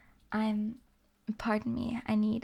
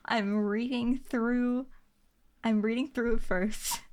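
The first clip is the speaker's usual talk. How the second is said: whispering. Real, not acted. Whispering on ASMR stream.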